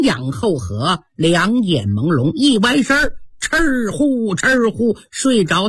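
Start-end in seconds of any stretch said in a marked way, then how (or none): 3.4-5.0 storyteller's mock snores; imitated snoring. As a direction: snore in and out as spoken syllables. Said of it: "打起呼噜了". (模仿呼噜声)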